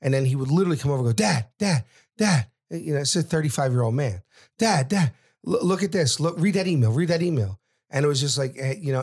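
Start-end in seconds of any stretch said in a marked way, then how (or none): 1.1-2.5 eager, higher-pitched calls to Dad; overexcited. Retold or imitated. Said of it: "so he's overexcited". 4.6-7.6 higher-pitched, insistent son showing off; overexcited. Retold or imitated. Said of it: "so he's overexcited".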